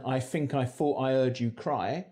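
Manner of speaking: London th fronting throughout. Shown as a demonstration. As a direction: think said fink, thought said fought. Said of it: "So in London".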